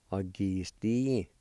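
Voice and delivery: Agisti said slowly and clearly; slow careful pronunciation. Shown as a demonstration. Teacher repeating the word for learners, slow. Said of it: "I'll pronounce these words one more time".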